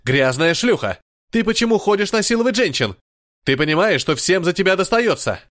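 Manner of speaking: выше и быстрее, почти крик; обрушься на неё с руганью; гневный крик. Acted. Рейджин ругает Адалану. (Рейджин орёт на Адалану, в ярости)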